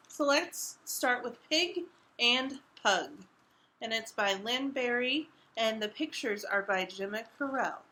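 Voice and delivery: expressive picture book reading; reading to children. A narrator's reading. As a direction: read it out to young listeners.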